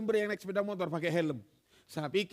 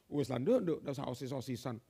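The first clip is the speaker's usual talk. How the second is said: lower, teasing Javanese uncle; naughty uncle; 9 semitones lower, 3 dB quieter than usual. Retold or imitated. Uncle teasing his niece to drop student council, mock coaxing. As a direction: coax her to skip it, lightly. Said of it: "jadi Pak D-nya nakal".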